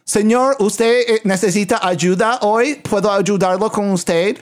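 overly polite front-desk voice; Peggy Hill voice. Retold or imitated. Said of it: "Ok, Peggy Hill".

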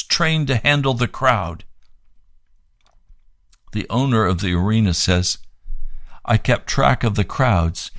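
measured read-aloud narration; formal testimony reading. Acted. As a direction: read the written account out evenly and clearly. Reads the account and newspaper report.

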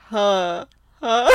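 slowed-down laugh imitation. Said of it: "if you slow-mo your voice".

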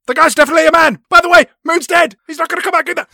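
mock him in a squeaky put-on voice; mocking shrill voice. M sneering at Bond, squeaky mocking voice.

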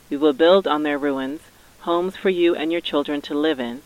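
rally the workers with conviction; rousing speech. Retold or imitated.

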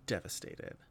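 slow, low, dropping to a whisper; mock devastated. Leaving the cinema pitying the character, mock-devastated hush. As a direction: mourn it half-jokingly. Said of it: "I was just like".

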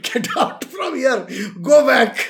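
a retold yell that bursts loud at the end; mock shout. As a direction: bark them away, then blast go back. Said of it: "I was like".

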